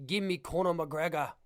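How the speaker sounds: lightly put-on Irish accent; attempted Irish accent. Shown as a demonstration. Fight fan attempting Conor McGregor's accent, shaky Irish accent. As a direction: try an amateur Irish accent. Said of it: "is that a decent Irish accent".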